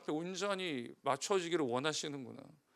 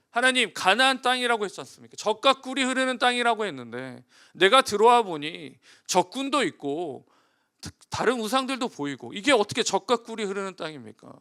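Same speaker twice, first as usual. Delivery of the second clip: mock indignant complaint; 3 semitones higher, 5 dB louder than usual. Imagined complaint to God.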